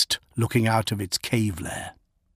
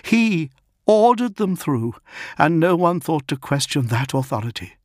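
stern commander; 7 semitones higher than usual. Acted. Dolor addressing the Astartes officers.

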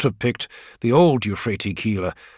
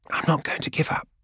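breathy whispered repeat of I'm not going to give up; barely a whisper; 4 semitones higher, 5 dB quieter than usual. Acted. Gang girl repeating her refusal to Keeler, barely whispered. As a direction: let the refusal shrink to a whisper near tears. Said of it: "but it's barely a whisper".

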